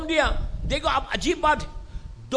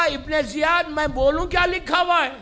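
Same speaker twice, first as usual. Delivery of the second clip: raised, retold challenge; calling out; 4 semitones higher, 3 dB louder than usual. Handcuffed Misam challenges Ibn Ziyad, calling out. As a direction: call it boldly across the court. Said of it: "پکار کے کہا".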